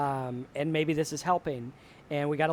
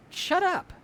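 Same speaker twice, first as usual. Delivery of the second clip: put-on a much higher, yelled "Shut up." like a scared kid snapping; kid yelling back; 14 semitones higher than usual. Kevin turns on the scary basement radiator and yells. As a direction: fire "Shut up." at the monster in a high yell.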